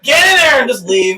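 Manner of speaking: high-pitched order through laughter; exasperated mock order. Cop giving up on the backflipping driver, laughing exasperation. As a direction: crack up while ordering them away.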